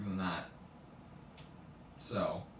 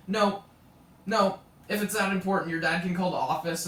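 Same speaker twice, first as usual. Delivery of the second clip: louder, higher imitation of a strict teacher; mock firm refusal; 3 semitones higher, 6 dB louder than usual. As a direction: shut the student down as the teacher. Imitates teacher refusing a phone call.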